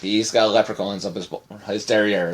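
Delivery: weak, slurred attempt at Irish accent. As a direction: try an Irish accent and miss. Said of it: "I'm trying to talk Irish".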